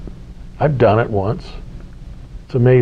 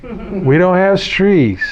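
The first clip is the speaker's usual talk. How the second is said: slow, higher mock New Zealand accent; 5 semitones higher, slower than usual. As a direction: stretch it out, teasing the Kiwi way of saying stress. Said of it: "that is very accent".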